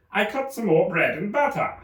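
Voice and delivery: high, anxious voice; nervous Hatter. Acted. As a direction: explain timidly.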